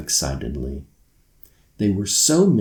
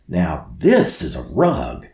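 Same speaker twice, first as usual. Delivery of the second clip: shouting; 3 semitones lower, 4 dB louder than usual. Acted. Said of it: "Lily shouted".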